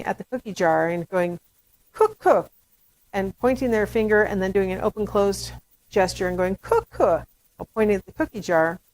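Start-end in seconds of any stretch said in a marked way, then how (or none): 1.9-2.5 put-on high, loud toddler demand; demanding baby. Baby pointing at the cookie jar, demanding. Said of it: "in that demanding tone of voice". 6.6-7.3 high-pitched mock toddler demand; demanding baby. Baby gesturing at the cookie jar, demanding. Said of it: "in that demanding tone of voice".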